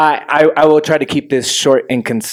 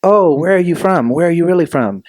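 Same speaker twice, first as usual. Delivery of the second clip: higher, curious prying question; mock Americans asking; 6 semitones higher than usual. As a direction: lean on really like a nosy stranger. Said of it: "Americans were all like".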